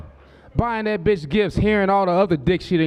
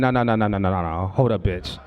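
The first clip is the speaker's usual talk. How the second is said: daughter protesting; 11 semitones lower than usual. Retold or imitated. Daughter denies, voiced.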